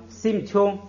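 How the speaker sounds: 심 chung with a closed final m; 심 ends in a clear m, chung follows; pronunciation demo. Shown as a demonstration. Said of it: "这个就读成".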